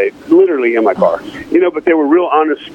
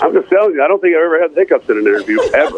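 laughing through hiccups; giggly, with hiccups; 3 semitones higher, faster than usual. Real, not acted. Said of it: "a singer with the hiccups".

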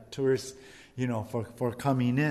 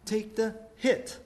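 lightly voiced sly tempter; Satan tempting; 5 semitones higher than usual. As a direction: sell it gently, a little sly. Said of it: "or he says".

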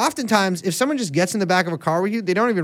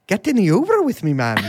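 bad Irish accent. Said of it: "do the Lucky Charms voice".

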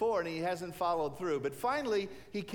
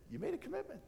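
voice of the Lord; 9 semitones higher, 6 dB quieter, faster than usual. Acted. Voice of the Lord reminding.

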